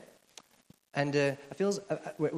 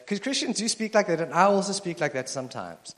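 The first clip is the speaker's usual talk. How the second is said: preaching emphasis; 6 semitones higher, 7 dB louder than usual. Real, not acted.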